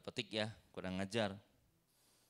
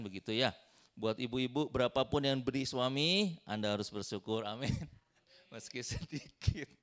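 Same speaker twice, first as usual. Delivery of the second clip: usual speaking voice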